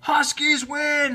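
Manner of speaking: high, slow, drawn-out cheer; victory cheer. A narrator's reading. The team celebrating their win, joyful cheer. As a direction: cheer it like you just won. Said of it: "cheered the team".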